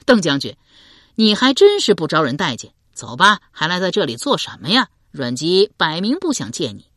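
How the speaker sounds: 更响亮的嘲弄男声; 洪亮地打趣对方; 刘伶调侃. Acted. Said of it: "刘伶哈哈大笑道". (刘伶大声揶揄邓将军)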